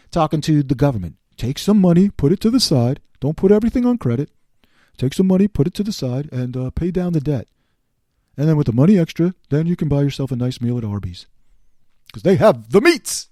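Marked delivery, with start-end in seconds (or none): 1.4-13.3 Dave Ramsey. Retold or imitated. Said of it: "I feel like Dave Ramsey here".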